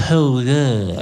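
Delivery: low gruff "oh yeah" like a grown bloke; deep mock man. Comic telling the crowd what his newborn said, in a deep gruff voice. Baby's first words, deep voice.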